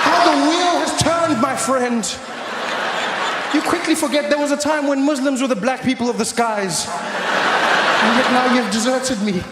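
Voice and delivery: loud, high, slow mock-tragic speech; dramatic shout. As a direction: declaim the betrayal loudly.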